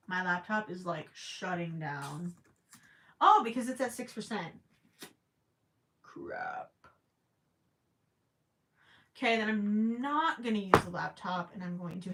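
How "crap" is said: breathy whispered crap; whispered curse. Real, not acted. As the laptop dies, a whispered curse. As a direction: mutter it under your breath.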